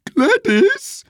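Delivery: very high cry of the name; outraged shout. A narrator's reading. Missus sees servants' meat for supper, shouting at Gladys. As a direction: call out shrilly, scandalised by the maid. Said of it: "she shouted".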